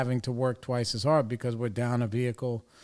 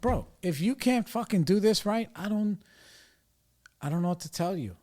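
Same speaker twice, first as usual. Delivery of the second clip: exasperated quote; 6 semitones higher than usual. Retold or imitated. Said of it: "I was like".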